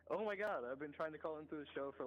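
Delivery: thrilled, words tumbling out fast; overjoyed to finally get through; excited. Real, not acted. Caller finally gets on air.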